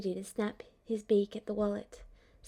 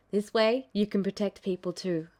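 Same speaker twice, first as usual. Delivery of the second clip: easygoing Zack voice; 2 semitones lower, 3 dB louder than usual. Acted. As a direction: say it fondly, easygoing. Zack fond reply.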